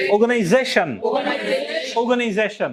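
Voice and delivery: অর্গানাইজেশন with main stress on ZEI. Shown as a demonstration. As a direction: lean on the zei syllable of অর্গানাইজেশন, then fall. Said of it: "এইভাবে নিচে নেমে যাচ্ছে".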